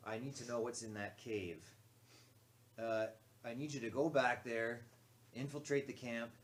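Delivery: loud, deep commanding voice. Acted. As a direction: give an urgent quest in a deep voice. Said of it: "I'll give him a deep voice".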